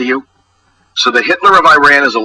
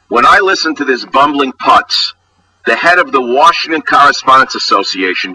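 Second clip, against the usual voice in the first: scornful disbelief; 6 semitones higher than usual. Real, not acted. Indignant rant mocking the dinner host.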